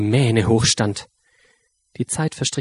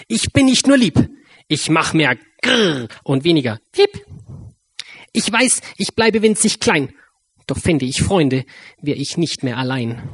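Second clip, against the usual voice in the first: excited mouse voice; 4 semitones higher than usual. A narrator's reading. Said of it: "rief sie".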